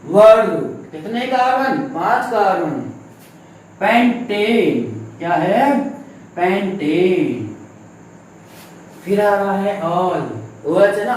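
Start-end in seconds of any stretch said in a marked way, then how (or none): 3.8-4.8 slow, syllable by syllable; drawn-out dictation. Real, not acted. Teacher naming the carbon chain while writing, drawn-out dictation. 6.3-7.5 slow, lower, syllable by syllable; drawn-out dictation. Real, not acted. Teacher repeating the chain's name for students, drawn-out dictation.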